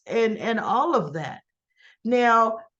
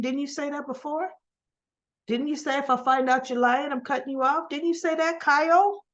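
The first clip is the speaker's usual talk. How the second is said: rising, higher challenge to Kyle; pointed questioning; 4 semitones higher, faster than usual. Acted. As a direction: press the question, pitch climbing to the name. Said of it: "in my mind, I'm thinking".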